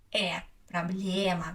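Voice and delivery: "э", then "проблема" with long open e; stressed е as э. Shown as a demonstration. Teacher giving the answer, "проблема" with held open e. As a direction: stretch the middle vowel of "проблема". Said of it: "because е is stressed".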